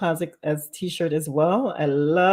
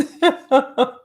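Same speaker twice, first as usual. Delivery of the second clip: laughing; 7 semitones higher, 4 dB louder than usual. Real, not acted. Laughing at own joke.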